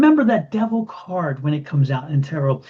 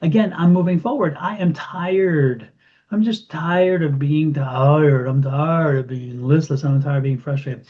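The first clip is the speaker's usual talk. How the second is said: weary and fed up. Retold or imitated. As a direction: drag the words out as if exhausted. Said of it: "Or do you want to say".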